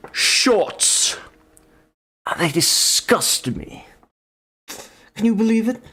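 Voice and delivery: hammed-up high fussy gentleman; mock scandalised gentleman. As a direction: gossip in shocked indignation.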